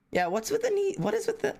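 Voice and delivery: very high confused squeal; high-pitched bewildered squeak; baffled squeak. Real, not acted. Confused by the knee spam.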